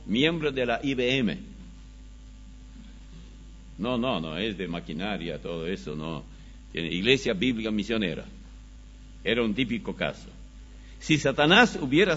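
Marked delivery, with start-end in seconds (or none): none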